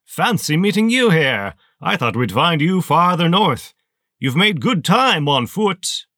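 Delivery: high, loud, sneering villain voice; towering armored colonel greeting a lieutenant, high and loud; menacing colonel. Acted. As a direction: let it cut like a rusty saw blade. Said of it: "like a rusty saw blade slicing through your spine".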